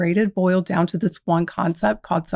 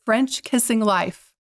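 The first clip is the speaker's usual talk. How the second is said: spelled out slowly for a puzzled listener; slow, deliberate repeat of French kissing life; slow and clear; 2 semitones higher, slower than usual. Real, not acted. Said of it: "They're what?".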